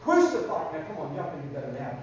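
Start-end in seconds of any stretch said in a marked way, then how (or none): 0.0-0.7 loud crowd chant; crying mob. Acted. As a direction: shout it like an angry mob. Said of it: "The mob kept crying".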